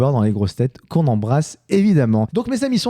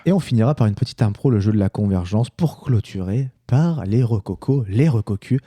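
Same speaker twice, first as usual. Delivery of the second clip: sultry voice; 5 semitones lower than usual. Acted. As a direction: purr it out like a seductive host. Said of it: "je prends une voix suave et sensuelle".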